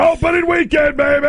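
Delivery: hyped shout. Acted. Radio host hyping opening weekend.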